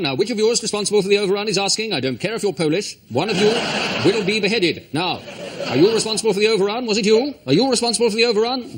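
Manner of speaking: Prince Charles. Pretend. Prince Charles voiced over news footage.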